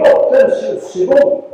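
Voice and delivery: put-on a touch of teenage annoyance; annoyed outburst. Young Michel fed up with wake-ups, annoyed. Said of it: "je me suis un tout petit peu fâché".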